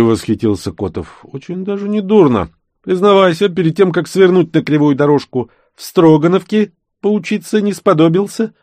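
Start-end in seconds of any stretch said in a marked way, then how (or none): 1.2-8.5 higher, louder, playful mock-admiring voice; lightly voiced Kotov ribbing his friend with a grin; teasing consultant Kotov. A narrator's reading. Kotov jokingly praises the thief's drawing, playful and raised.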